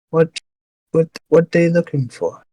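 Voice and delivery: simple orc asking bluntly; blunt questioning orc voice. Acted. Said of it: "now she's, like, an orc voice".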